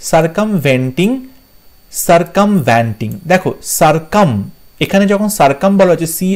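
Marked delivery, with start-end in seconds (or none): 0.1-1.1 "সার্কামভেন্টিং" said sar-kam-VEN-ting; "সার্কামভেন্টিং", third syllable "ven"; "ven" vowel. Shown as a demonstration. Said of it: "ভি ই এন হয়". 2.1-3.1 "সার্কামভেন্টিং" very slow, as sar-kam-VAN-ting; "সার্কামভেন্টিং" stretched out, third syllable "van"; wrong "van" vowel. Shown as a demonstration. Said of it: "এখানে ভ্যান্টিং হবে না".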